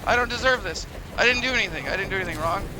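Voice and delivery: high, loud hammed-up wailing, fading toward the end; mock despair. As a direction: whine like a wronged melodrama victim. Mock despair at monster attack.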